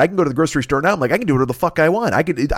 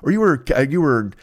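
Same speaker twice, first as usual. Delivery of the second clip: heated indignant protest; 5 semitones higher than usual. Pretend. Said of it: "And he goes".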